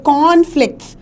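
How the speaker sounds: कॉन्फ्लिक्ट्स with weight on its opening कॉन; stress on first syllable. Shown as a demonstration. Teacher showing where stress falls in कॉन्फ्लिक्ट्स, first-syllable stress. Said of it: "हम कहाँ पे stress दे रहे हैं".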